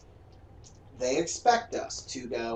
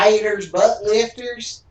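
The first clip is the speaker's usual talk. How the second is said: slow, loud, drawn-out BUTT LIFTERS; big hammed-up announcement; exaggerated showy delivery; 8 semitones higher, 11 dB louder, slower than usual. Shown as a demonstration. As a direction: belt out each word, stretched and higher. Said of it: "you gotta say it right".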